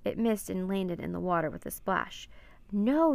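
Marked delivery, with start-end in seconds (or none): 2.7-3.1 loud, high, drawn-out cry of protest; yelling. A narrator's reading. Annie yells as the harpoon flies, loud protest. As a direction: yell it out in alarm. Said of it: "yelled Annie".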